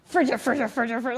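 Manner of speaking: lightly imitated movie-character cursing; mock sputtering in nonsense swearwords; Home Alone grumbler. Stressed mother grumbling like a Home Alone character, mock cursing. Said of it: "like the guy on Home Alone".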